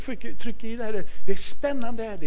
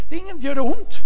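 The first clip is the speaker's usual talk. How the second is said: coaxing question; 10 semitones higher, faster than usual. Retold or imitated. Pappa frågar barnen.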